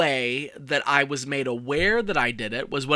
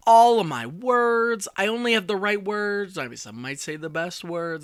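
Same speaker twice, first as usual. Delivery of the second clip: loose half-hearted impression, high start dropping off; Donald Trump; 5 semitones higher than usual. Communications person boasting about words, half-hearted impression. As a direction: lightly mimic a boastful politician, mostly in own voice. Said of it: "That's my Trump impression".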